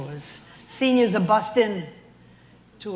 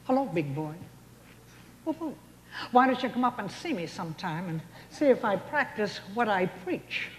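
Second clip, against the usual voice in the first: Mae West; 4 dB quieter than usual. Retold or imitated. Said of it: "Mae West, tribute".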